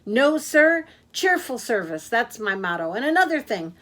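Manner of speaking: high, loud, fast-talking taxi driver; a cheerful blabbermouth who never stops; loud chatty Yak. Acted. Yak the taxi driver chattering to his passenger, loud and high.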